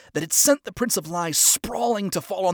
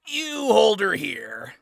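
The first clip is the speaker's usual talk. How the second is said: loud, slow, higher command; commanding order; 7 semitones higher, 6 dB louder, slower than usual. Acted. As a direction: give the order firmly. Villain orders lieutenant.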